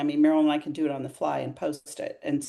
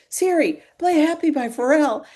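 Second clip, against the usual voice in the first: high, louder yell at the voice assistant; exasperated high-pitched mock scream; retold scream; 10 semitones higher, 5 dB louder than usual. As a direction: raise your voice as if the device can't hear. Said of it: "So I'm screaming".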